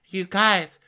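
high, hammed-up worried voice; acting out cast member. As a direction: put on a high, earnest worried voice. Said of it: "they're like".

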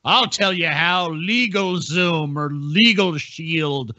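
slow, hammed-up salesman voice, lightly done; mock ad pitchman. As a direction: drag it out like a pushy ad read, half-mocking. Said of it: "whatever fucking bullshit I'm peddling".

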